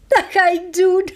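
very high, laughing through the words; shrieking with laughter. Acted. Queen tells the footman she'll try it, shrieking with laughter. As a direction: giggle helplessly as you speak. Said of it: "begint te gieren van het lachen".

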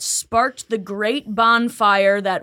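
slow, grand mock-formal reading; slow mock essay reading. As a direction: read it out like a pompous essay. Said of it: "all I remember writing is".

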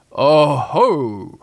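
drawn-out, swooping exclamation; gloating Heffalump. A narrator's reading. Pooh imagining what the Heffalump will say, gloating. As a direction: relish it slowly, swooping up. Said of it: "in a gloating sort of a way".

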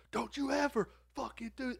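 high-pitched mock telling-off; dad's fake scolding. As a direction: put on a pretend beating tirade. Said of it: "He just pretended to".

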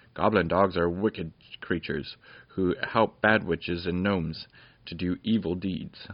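lightly voiced commanding lord; a hint of a stern fairy lord. Lord Roland's commands in story.

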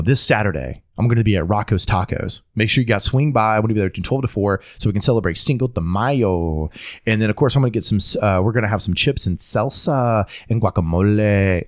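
DJ patter with put-on Spanish accent on food words; radio DJ code-switching. Host imitating radio DJs, Spanish accent on borrowed words. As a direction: lean into a Spanish accent on "Cinco de Mayo", "salsa", "guacamole". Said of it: "radio D Js will do it all the time".

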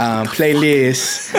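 put-on PLAYLIST drawn out in a Filipino accent; mock Filipino accent. Giving a requested update on playlist, slow Filipino accent. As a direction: say "playlist" slowly, Filipino-style. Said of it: "but with a Filipino accent".

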